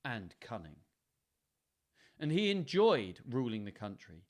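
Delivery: measured storytelling with long pauses; story narration. A narrator's reading. Reader tells listeners of aged Lear, measured narration. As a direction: read it out deliberately, phrase by phrase.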